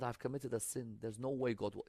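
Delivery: retold despairing confession. Voices the despairing sinner's confession.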